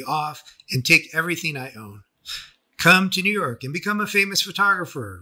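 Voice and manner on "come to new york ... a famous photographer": quoting Rachel. Retold or imitated. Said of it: "Rachel said".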